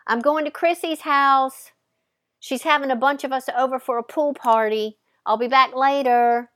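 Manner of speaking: put-on a carefree girl calling back as she leaves; calling out to mom. Heading out to a pool party, calling to mom, excited. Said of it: "calling back to her mom".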